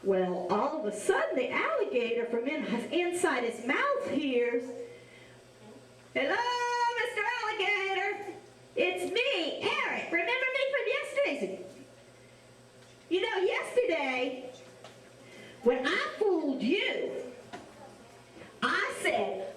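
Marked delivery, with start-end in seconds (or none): 6.1-17.1 put-on high, fast cheeky little boy; boy's voice. Storyteller voicing Eric greeting the alligator, high and cheeky. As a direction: lightly pipe up like a cheeky kid.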